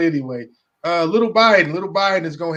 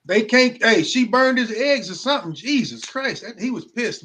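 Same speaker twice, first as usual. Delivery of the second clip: mock outrage; 5 semitones higher, 5 dB louder than usual. Real, not acted. Jokes about the killer's motive.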